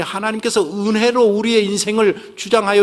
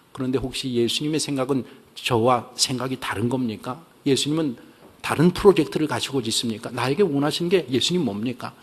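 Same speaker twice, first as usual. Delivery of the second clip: earnest quiet prayer; 4 semitones lower than usual. Shown as a demonstration. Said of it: "불평을 하다가".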